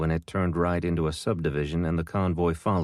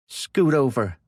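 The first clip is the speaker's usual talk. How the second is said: growling; 8 semitones higher, 5 dB louder, slower than usual. A narrator's reading. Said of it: "she growled".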